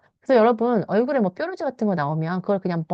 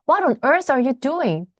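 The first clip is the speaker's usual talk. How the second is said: a lightly raised father's voice; mild mock yell; 4 semitones higher, 3 dB louder, much slower than usual. Father calling out to his son in the mud, a mild mock yell. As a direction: read it like a dad lightly scolding. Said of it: "He yelled at me".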